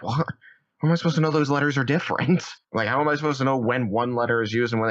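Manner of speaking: high, fast exasperated disbelief; mock outrage at the app, rushed and high; baffled protest. Learner fuming at Duolingo, high, fast and exasperated.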